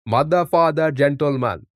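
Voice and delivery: light slow impersonation of a K-pop singer's chant, out of a laugh; laugh, then drawl the three words like the singer; lightly voiced mock K-pop chant; imitating the singer. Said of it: "That's an impersonation".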